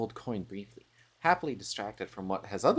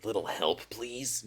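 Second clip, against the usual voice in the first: lower huntress try; 4 dB quieter, slower than usual. Shown as a demonstration. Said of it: "No, that's not it either".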